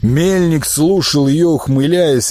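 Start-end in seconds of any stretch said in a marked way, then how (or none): none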